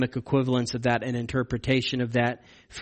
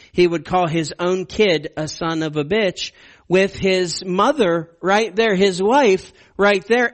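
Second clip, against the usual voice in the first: indignant; 4 semitones higher than usual. Real, not acted. Indignant retelling of cursing.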